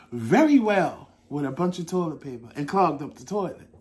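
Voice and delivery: words broken by laughter; laughing while talking. Real, not acted. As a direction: laugh through the line. Laughing through embarrassing story.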